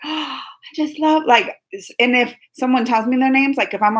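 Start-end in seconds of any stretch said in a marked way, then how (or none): 0.0-1.2 fake gushing. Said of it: "I pretend like I know their names".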